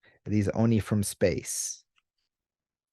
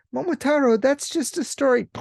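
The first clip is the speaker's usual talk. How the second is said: much higher, louder, disbelieving; incredulous human; 5 dB louder than usual. Retold or imitated. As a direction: scoff in disbelief. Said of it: "It's like".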